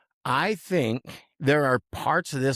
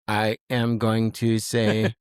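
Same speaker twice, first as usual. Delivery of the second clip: robot voice; 3 semitones lower, much slower than usual. Pretend. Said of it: "Why are you talking like a robot?".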